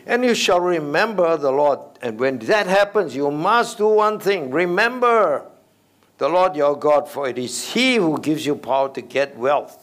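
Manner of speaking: high, loud pulpit preaching; full-force preaching of the verse. Acted. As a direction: proclaim it to the congregation.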